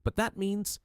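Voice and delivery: high, stunned, cut-off realisation; breaking off in shock. A narrator's reading. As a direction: she stops mid-thought, horrified. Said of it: "Lady Constance staggered backward".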